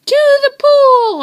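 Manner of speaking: high, loud urgent shout; boy yelling to the firemen; yelled. A narrator's reading. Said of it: "I yelled".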